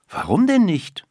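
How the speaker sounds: a hint of boyish frustration; questioning schoolboy. A narrator's reading. Boy challenges the girl.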